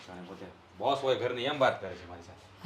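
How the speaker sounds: bitter grumble. Acted. Husband grumbling alone after wife storms out, bitter mutter. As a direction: mutter it under your breath.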